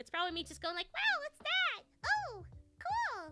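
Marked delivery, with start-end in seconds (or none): 0.9-3.3 put-on small-child voice, very high. Voice actor showing the voice they use for background kids, little kid voice. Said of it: "this is the voice I use for, like, little kids".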